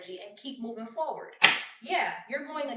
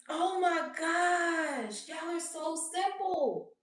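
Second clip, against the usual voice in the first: mocking disbelief; 6 semitones higher, much slower than usual. Real, not acted. Mocking the haters.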